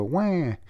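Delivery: mock child's scream. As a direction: imitate a bawling kid, mildly. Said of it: "you hear the kid screams".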